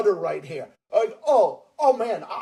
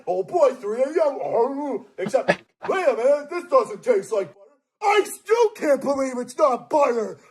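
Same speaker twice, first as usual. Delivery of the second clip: hammed-up 3 AM skit; 2 semitones higher than usual. Acting out 3 AM video.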